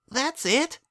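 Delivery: put-on high, childish disappointed voice; a small filly let down by the ending; little filly, unimpressed. A narrator's reading. Filly asks her foal-sitter about the story's ending, let down.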